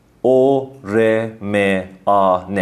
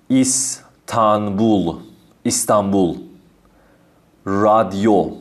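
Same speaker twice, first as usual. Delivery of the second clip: ایستانبول drawn out slowly, syllable by syllable; slow demo; slower than usual. Shown as a demonstration. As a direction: stretch ایستانبول slowly for the learners. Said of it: "ا و او". (ایستانبول آهسته و کشیده)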